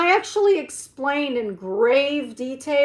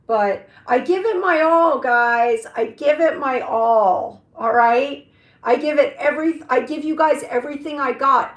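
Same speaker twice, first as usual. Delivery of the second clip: louder, emphatic promise; 2 semitones higher, 5 dB louder than usual. Real, not acted. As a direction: insist with full energy.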